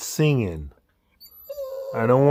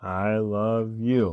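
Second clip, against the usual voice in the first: softer, slow mumbled I love you; mumbling; 5 dB quieter, much slower than usual. Pretend. Voicing the dog's mumbled reply, softer. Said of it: "Come on, you're mumbling".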